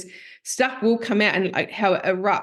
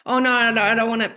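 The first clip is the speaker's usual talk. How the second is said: retold panic; faster than usual. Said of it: "I'd panic".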